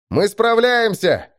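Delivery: high, drawn-out cry; elated shout. A narrator's reading. Vector cheering the crew through fog, shouting. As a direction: call it out in rising hope. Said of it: "выкрикнул Вектор".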